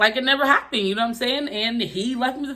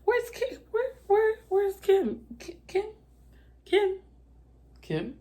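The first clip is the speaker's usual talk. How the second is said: high, panicked calling out for Kim; frantic calling; 12 semitones higher, 4 dB quieter than usual. Retold or imitated. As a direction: yell her name in rising alarm, near tears.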